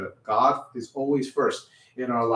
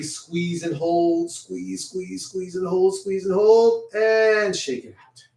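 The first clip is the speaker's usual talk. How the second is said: higher voice building through the squeezes, then a drawn-out release; straining encouragement; 5 semitones higher, slower than usual. Real, not acted. Music teacher leading children in a hand squeeze, rising intensity. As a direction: coach the squeeze with rising tension.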